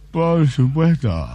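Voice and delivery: drawn-out smug answer through a chuckle; slow Japanese man, laughing. Acted. Japanese lover answering the interviewer again, slow with a chuckle. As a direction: stretch it out slowly, half laughing.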